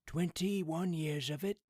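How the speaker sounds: high, loud, slow proud exclaim; proud exclamation. A narrator's reading. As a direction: marvel at the years. Father's proud remark.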